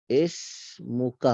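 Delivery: اسمک said very slowly and stretched after ما; drawn out. Shown as a demonstration. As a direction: drag out اسمک. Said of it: "تمہارا نام کیا ہے". (اسمک کھینچ کر)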